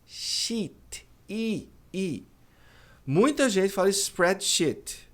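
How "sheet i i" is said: sheet with a long smiling I; long EE sound. Shown as a demonstration. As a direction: smile and stretch the I. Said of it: "Tem até que dar um sorrisinho".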